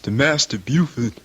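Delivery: low and soft, deadly quiet; low grim resolve. Acted. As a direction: say it low like a promise to kill. Son vows to kill master.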